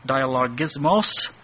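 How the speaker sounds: "dialogismos" with the weight on the final syllable, -mos; Greek word pronounced. Shown as a demonstration. Teacher spelling out the Greek for the class: "dialogismos" stressed on -mos. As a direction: say "dialogismos" as tie-a-log-iz-MOSS, landing on the end. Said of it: "the emphasis on the last syllable there".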